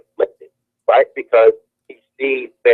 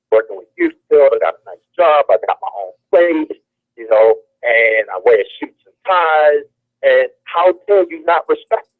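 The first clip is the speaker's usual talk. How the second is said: hurt indignation; 5 semitones higher than usual. Real, not acted. Wounded pride, rising indignation.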